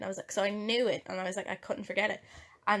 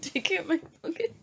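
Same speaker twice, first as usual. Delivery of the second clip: incredulous; 8 semitones higher, slower than usual. Pretend. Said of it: "changing that to your nickname".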